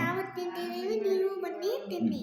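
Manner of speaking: sing-song invitation on request; recited invitation. Pretend. Child invites uncle to his favourite puliyogare, sing-song recital. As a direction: chant the invitation as you were just taught. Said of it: "ಹಂಗ್ ಕರಿಬೇಕು".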